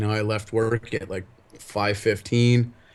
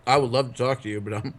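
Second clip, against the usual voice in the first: talking while eating; words round a bite of food; mouth full; faster than usual. Real, not acted. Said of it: "eating my dinner".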